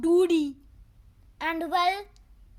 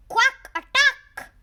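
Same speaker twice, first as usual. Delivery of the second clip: loud, slow, higher battle cry; 4 semitones higher, 6 dB louder, slower than usual. Acted. Duck hero yelling his attack move, loud and slow. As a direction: draw out the attack call like a war whoop.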